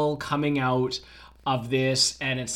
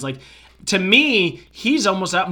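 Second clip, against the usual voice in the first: ordinary talk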